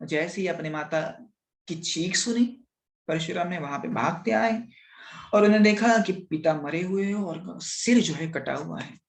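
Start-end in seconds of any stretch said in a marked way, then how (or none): none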